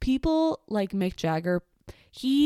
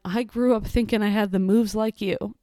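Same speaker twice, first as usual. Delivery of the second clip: starstruck blurt; 2 semitones higher, 4 dB louder than usual. Retold or imitated. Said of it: "So I just went".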